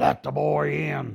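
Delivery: loud, very slow, gravelly rasp. Recalling a famous singer letting him in, doing the singer's gravelly voice. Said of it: "I remember that gravelly voice".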